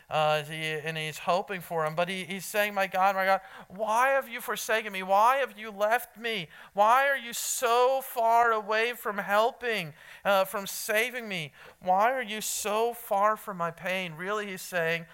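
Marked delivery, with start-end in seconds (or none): 2.7-14.1 pleading questions, pitched up in places; crying out. Acted. Pastor voices the forsaken Lord questioning God, mild crying out. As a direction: call out urgently to a distant God. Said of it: "He is crying out to his Lord".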